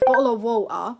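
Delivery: BOTTLE OF WATER with both Ts dropped for a throat catch; glottal stop. Shown as a demonstration. Teacher demonstrating some British accents, glottal stop. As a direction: say BOTTLE OF WATER as "bo'le o' wa'er". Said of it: "something called a glottal stop".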